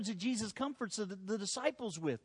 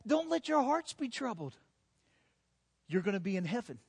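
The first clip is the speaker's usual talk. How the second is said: firm, sure comfort; confident reassurance. Acted. Jesus comforting his worried disciples, confidently. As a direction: say it with full confidence. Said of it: "Jesus says with all confidence".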